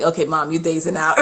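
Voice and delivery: put-on quoting the kids through a laugh, quickly; mock kid line laughed out; laughing quote. Mom quoting her kids, laughing through it.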